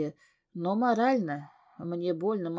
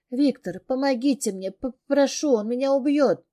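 higher, louder stammering plea; whimpering plea; 5 semitones higher, 4 dB louder than usual. Acted. Heroine begs Viktor to save her, whimpering in fear. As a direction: beg the newcomer to save you. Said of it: "Скулю".

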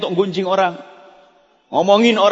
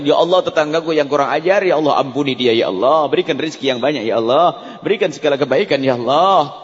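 prayer; 3 semitones lower than usual. Shown as a demonstration. Model prayer for enemy.

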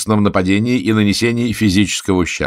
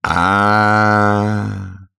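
a knowing, drawn-out "А-а-а"; knowing "ah" full of meaning; meaningful drawn-out ah; 4 semitones higher than usual. A narrator's reading. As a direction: let the sound hint you understand all. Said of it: "многозначительно произнёс Гамильтон Бимиш".

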